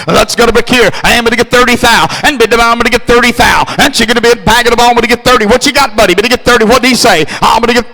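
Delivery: fast rhythmic bid-calling chant; auctioneer. Acted. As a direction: rattle off the bids like an auctioneer. Auctioneer calling car bids.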